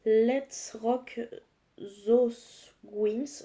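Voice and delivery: English words read in a strong French accent. Real, not acted. Vlogger reads the palette's English name in French-accented English. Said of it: "mon accent anglais, il est catastrophique".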